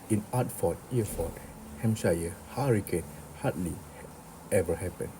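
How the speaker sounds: "Hertford, Hereford, Hampshire" said without the initial H, as 'ertford, 'ereford, 'ampshire; H-dropping. Retold or imitated. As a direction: imitate Eliza dropping the H on "hardly" and "happened". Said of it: "H dropping".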